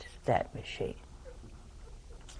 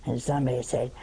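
normal talking voice

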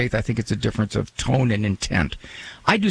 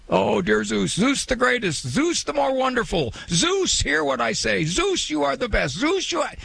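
high, wheedling, flattering pleas to Zeus; a worshipper nagging a god with high flattery; nagging pagan prayer; 10 semitones higher than usual. Retold or imitated. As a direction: fawn over Zeus in a high pleading voice. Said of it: "just nagging them".

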